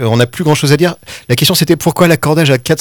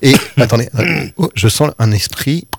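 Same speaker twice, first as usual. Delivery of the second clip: seance medium; 3 semitones lower than usual. Acted. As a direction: play a medium sensing a presence. Host plays medium sensing spirit.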